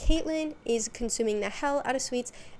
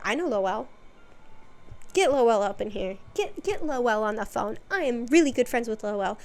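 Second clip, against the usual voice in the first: insistent mock demand, louder; Karen demand; 4 dB louder than usual. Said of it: "She is Karening out".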